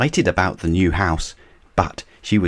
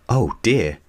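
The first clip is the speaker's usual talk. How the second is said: gasped; 4 semitones higher than usual. Acted. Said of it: "gasped Grandpa Pig".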